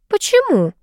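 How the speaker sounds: high, surprised question; genuinely taken aback; sincere surprise. A narrator's reading. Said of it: "искренне удивилась Анита".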